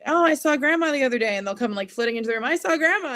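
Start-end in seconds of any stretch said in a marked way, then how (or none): 0.0-1.3 put-on high, loud little-kid voice; pitched up and louder, offhand; child's breezy announcement. Acts out child's casual announcement. 2.4-3.1 put-on high, loud kid blurting it out; quick bit of news, pitched up; child's breezy announcement. Child announcing while flitting in.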